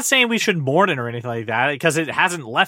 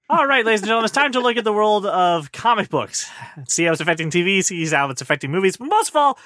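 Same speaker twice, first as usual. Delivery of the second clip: announcer voice. Acted. Show intro announcement.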